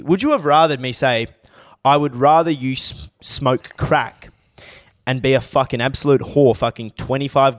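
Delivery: indignant rant, pushed harder at first; episode rant. Real, not acted. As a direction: scold them in an exasperated tirade. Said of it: "This is my rant for the episode".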